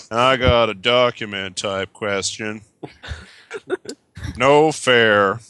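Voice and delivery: put-on American accent, reading a question; lightly hammed American caller voice. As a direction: read it out in a mock American accent. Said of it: "do the British American voice".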